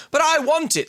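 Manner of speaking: mild mock scream of a wanting kid. Little girl in toy store, mock screamed demand. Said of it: "screams the girl".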